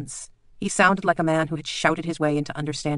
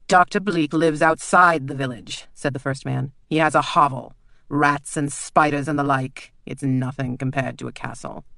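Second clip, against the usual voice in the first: louder, slow and scornful; mocking nobleman; 4 dB louder than usual. The lord mocks Bleak's hovel to the girls. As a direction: belittle your rival.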